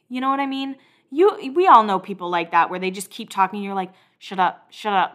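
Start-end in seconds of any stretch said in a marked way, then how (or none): 4.2-5.1 muttered between clenched teeth; mock warning through gritted teeth. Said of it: "between your teeth".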